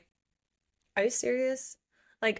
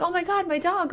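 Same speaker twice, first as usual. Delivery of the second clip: mock panic; 10 semitones higher than usual. Retelling Luna panicking over dog.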